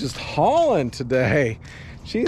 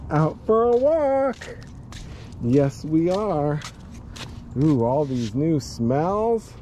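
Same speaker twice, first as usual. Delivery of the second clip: slow cooing; slower than usual. Real, not acted. Cooing to dog on walk.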